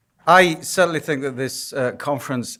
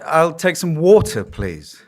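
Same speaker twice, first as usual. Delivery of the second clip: "I'll take some water" said louder and higher, pushing "water"; slightly raised, emphatic second try; louder repeat; 4 semitones higher, 6 dB louder, slower than usual. Retold or imitated. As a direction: repeat it louder so she understands. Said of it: "She couldn't understand my accent".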